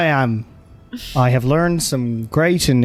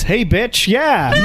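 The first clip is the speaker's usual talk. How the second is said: put-on Irish accent; 7 semitones higher, slower than usual. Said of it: "hard to do in a sort of Irish accent".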